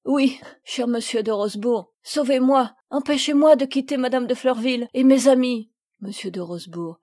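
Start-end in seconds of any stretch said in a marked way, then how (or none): 0.1-5.7 louder, higher tearful begging; a touch of sobs as she begs to stay; girl begging her guardian to save her; sobbing plea. Acted. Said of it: "en sanglotant".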